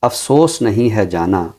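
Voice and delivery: measured, unhurried verse reading; poem recitation. Acted. Poet reciting his verse to the show host, measured and unhurried. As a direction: recite the couplet with weight on each line.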